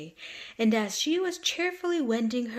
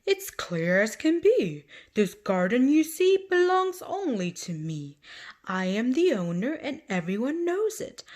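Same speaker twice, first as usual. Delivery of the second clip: gardener; 4 semitones higher, 4 dB louder than usual. Acted. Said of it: "The gardener answered".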